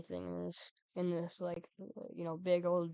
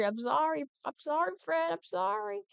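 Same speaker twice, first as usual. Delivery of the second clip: apology climbing higher each time; plead, pitching up higher; mock apology; 9 semitones higher, 3 dB louder than usual. Playful repeated apology to Fred.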